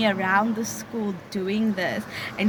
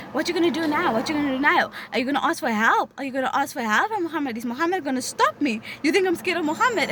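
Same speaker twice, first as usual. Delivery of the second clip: quick, higher, gloating jeer; mocking taunt; 5 semitones higher, faster than usual. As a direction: rub it in like a bully who just won. Girl taunts after pulling scarf.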